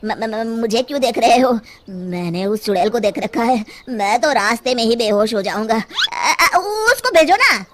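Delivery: stammering coward. Acted. Villager scared to go.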